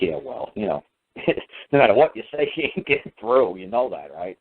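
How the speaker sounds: chuckling through the words; amused officer laughing while he talks; retelling a border supervisor who laughs mid-sentence. Retold or imitated. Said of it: "But the supervisor was laughing".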